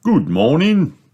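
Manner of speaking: high, cheery shopkeeper hello; smiling wide to welcome customers; beaming greeting. Acted. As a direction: greet them with a big beaming smile. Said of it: "beams Mister Fox".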